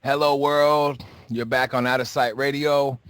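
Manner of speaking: talking with a mouthful of food; chewing while speaking; mouth full. Real, not acted. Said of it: "I'm chewing food".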